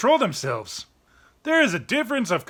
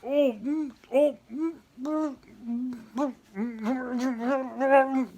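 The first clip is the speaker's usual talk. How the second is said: disgusted groans; 5 dB quieter, slower than usual. Retold or imitated. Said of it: "you're like".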